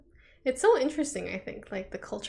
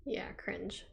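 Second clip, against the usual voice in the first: whispered cringe; 12 dB quieter than usual. Real, not acted. Mock disgust at weird parents.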